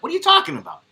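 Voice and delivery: indignant squeak at mom; mock outrage. Son snapping back at his mother, high and incredulous.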